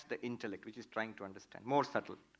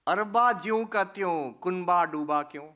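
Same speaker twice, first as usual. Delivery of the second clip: mock lament; 3 semitones higher, 7 dB louder, slower than usual. Father's lament, Hindi rhyme.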